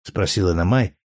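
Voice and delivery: usual speaking voice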